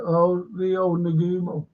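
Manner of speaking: Rio Nagumo said slowly, REE-oh nuh-GOO-mo; careful pronunciation. Shown as a demonstration. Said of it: "is how you say it".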